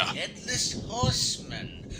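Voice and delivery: spooky whisper. Acted. Spooky mention of the ghost.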